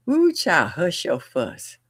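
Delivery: lightly voiced Southern grandma; a hint of old-school grandma scolding; Southern grandmother. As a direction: shush a child, high start falling into a slow drawn-out finish. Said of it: "she had that old slang where she'd be like".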